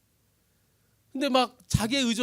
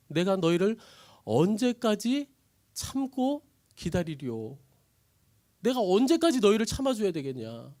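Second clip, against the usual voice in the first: slow, louder sighing complaint; how long must I bear this; weary exasperation; 3 semitones higher, 4 dB louder than usual. Acted. Jesus complaining to his disciples, exasperated.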